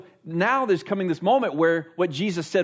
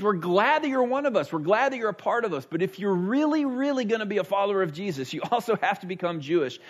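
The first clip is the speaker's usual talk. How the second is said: higher, eager voice of Jewish Christians; eager believers; 4 semitones higher than usual. Retold or imitated. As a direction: sound keen and welcoming, then insist. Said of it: "an excitement in the Jews".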